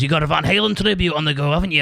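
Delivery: light mock Scottish accent. Promoter asks about the tribute band, lightly put-on Scottish accent. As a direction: imitate a Scottish promoter asking a question. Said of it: "do you like my Scottish accent".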